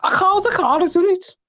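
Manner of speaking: put-on Scouse accent, lightly done. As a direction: prank caller in a silly Scouse accent. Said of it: "trying to do a silly Scouse accent".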